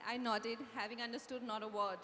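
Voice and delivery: story narration. A narrator's reading. Radhika admitting confusion to readers, low narrated aside. Reads book narration aloud.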